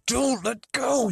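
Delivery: high, drawn-out annoyed yell. A narrator's reading. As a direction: yell at a friend who's clinging to you. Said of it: "you yell, trying to pry him off".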